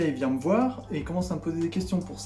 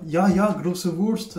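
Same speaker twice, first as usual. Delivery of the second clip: slow, louder cliché German; mock German; 6 dB louder, much slower than usual. Mocking Germans to viewers, slow cliché German. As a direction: ham up a silly German. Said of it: "je vais pas lui dire".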